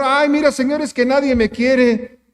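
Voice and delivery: hammed-up poor-me plea; whiny excuse. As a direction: beg the Lord with a mock whimper. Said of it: "No le dijo al Señor".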